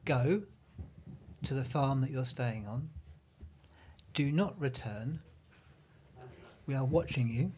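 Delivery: slow, solemn warning; slow grave officer. Retold or imitated. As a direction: read the officer's words slowly and gravely. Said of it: "police officer has just said to us these words".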